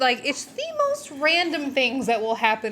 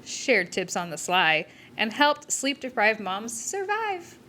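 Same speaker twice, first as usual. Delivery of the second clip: rhythmic, sing-song poem reading; limerick reading. Acted. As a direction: recite it like a limerick with bounce. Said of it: "A limerick".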